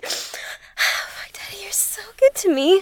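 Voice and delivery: breathy whispered request. Acted. Whispering to her partner in roleplay, soft whisper. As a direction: whisper it close to the mic.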